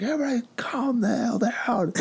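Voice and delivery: high mock pilot announcement; annoyed pilot. Pilot mocked telling the nervous passengers to calm down. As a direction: bark it like a fed-up pilot over the intercom. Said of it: "It's like".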